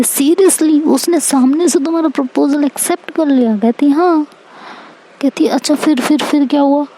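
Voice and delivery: amazed eager questions. Acted.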